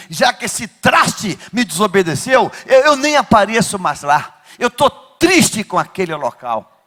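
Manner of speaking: lightly voiced sulking God. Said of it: "diria assim".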